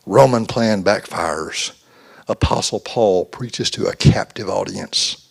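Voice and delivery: slow, announcing a news headline; mock newspaper headline; headline read. Reads an imagined headline.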